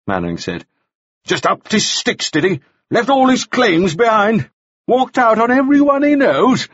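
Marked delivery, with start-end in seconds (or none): 1.2-6.7 high, mounting incredulous questions; sarcastic disbelief. A narrator's reading. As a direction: pile on the questions, climbing in pitch. Interrogator sarcastically presses the witness.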